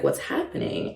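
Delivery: softly whispered what's happening; retold whisper. The comic confused in bed, whispering. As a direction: breathe it out, confused. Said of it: "I was like".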